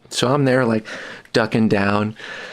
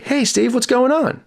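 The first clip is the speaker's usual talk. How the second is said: imitating Joe. Joe greets him warmly.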